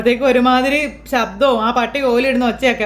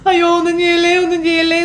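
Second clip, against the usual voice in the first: trembling plea; 6 semitones higher than usual. Acted. Son trembling, begging the ghost not to hurt him. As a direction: beg the ghost to spare you. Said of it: "വിറയ്ക്കാ Sudhi".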